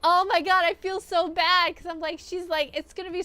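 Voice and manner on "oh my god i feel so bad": high, loud, laughing pity; laughing sympathy. Real, not acted. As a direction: laugh while wincing for her. Laughing sympathy for winded singer.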